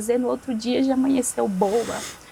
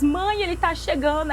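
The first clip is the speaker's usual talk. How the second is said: higher-pitched mock calling out; retold shouting; 6 semitones higher than usual. Sick girl alerting mother that someone is coming, retold shouting. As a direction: imitate an urgent call without a full yell. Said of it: "Eu gritei várias vezes".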